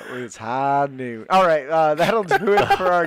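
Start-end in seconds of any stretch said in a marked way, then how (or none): 0.1-1.2 southern drawl. Shown as a demonstration. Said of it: "I can do the southern thing".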